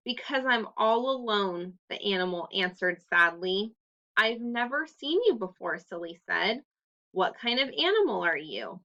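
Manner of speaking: put-on clear, expressive read-aloud for children; story narration. A narrator's reading. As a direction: read the story to the class with lively voices. Teacher reads story aloud.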